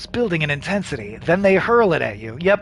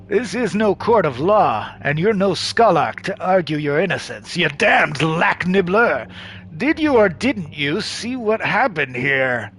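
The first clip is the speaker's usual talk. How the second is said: menacing villain. Acted. Xanadu menacing interrogation.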